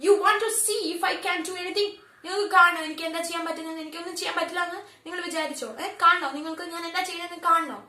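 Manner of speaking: menacing challenge. Acted. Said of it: "pronounces each word clearly".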